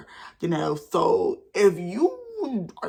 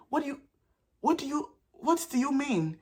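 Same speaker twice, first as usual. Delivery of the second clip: higher, hushed and halting; stunned disbelief; 7 semitones higher, 6 dB quieter than usual. Retold or imitated. Asking her friend about the cheating, stunned. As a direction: stammer it softly in stunned disbelief.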